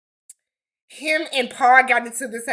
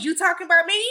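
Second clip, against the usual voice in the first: louder, firmer challenge; demonstrating a firmer delivery; 6 semitones higher, 4 dB louder, much faster than usual. Shown as a demonstration. Coaching Josh how to confront, louder and firmer. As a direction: say it like you mean it. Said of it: "Put some bass in your voice".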